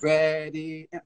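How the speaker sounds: drawn-out "ready, and"; imitated teacher's slow count-in; tempo-setting count-in. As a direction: stretch the cue to imply the tempo. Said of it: "infer the tempo by the".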